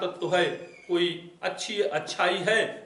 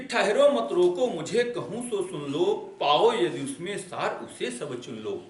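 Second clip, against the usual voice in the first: poem recitation. Acted. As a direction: declaim the queen's plea in verse. Recites Kaikeyi's verse.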